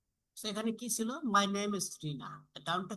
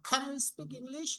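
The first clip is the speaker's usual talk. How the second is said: slow and higher, rising on English; rising intonation; 6 semitones higher, much slower than usual. Shown as a demonstration. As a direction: stretch it out and lift English at the end. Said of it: "up করব". (ধীরে, English-এ স্বর ওঠানো)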